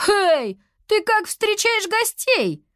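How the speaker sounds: high, loud outraged yell; stomping, furious child yelling; indignant shout. A narrator's reading. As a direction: scold the monster for its welcome. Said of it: "возмущённо крикнула девочка".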